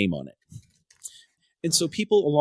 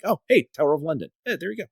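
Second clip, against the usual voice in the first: higher, lightly acted surprise; mock surprised discovery; 5 semitones higher, faster than usual. Runner retells spotting the landmark, lightly surprised. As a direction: replay spotting it, pitch lifted. Acting out suddenly spotting the Tower.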